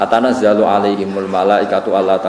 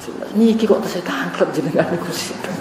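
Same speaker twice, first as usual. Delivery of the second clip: tearful prayer; 4 semitones higher than usual. Retold or imitated.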